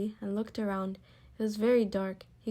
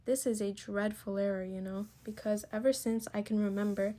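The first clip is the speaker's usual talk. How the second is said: mildly pleading bear. Acted. Bear pleads with the first vice president, mildly pleading. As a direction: plead earnestly but gently. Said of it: "The bear pleaded".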